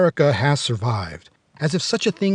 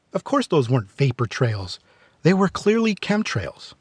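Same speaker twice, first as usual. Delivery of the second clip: deadpan mock certainty; mock conspiracy certainty. Mocking conspiracy belief.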